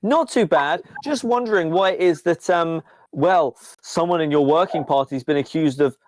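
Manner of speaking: friendly surveillance computer fishing for a confession. Acted. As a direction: computer voice in Pepper's ear, lightly done. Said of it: "computer in your ear go".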